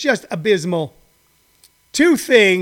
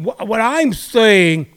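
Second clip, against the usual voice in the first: imitating Rudy Giuliani; 3 semitones lower than usual. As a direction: mumble like a shady lawyer hedging. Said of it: "Rudy Giuliani going".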